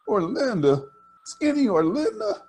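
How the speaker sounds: high, loud mocking "Skinny Orlinda?"; incredulous teasing girl; scornful disbelief. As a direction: scoff at such a silly choice. Mirandy scoffs at the choice.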